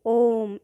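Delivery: "ओम" with the vowel drawn out slowly; prolonged, slow "ओम"; extra-long vowel. Shown as a demonstration. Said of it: "इसमें सबसे ज़्यादा समय लगता है".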